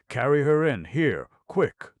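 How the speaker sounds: high, loud commanding shout; urgent shout. Acted. Harvey Deacon to the men carrying her, an urgent shout. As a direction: order them in.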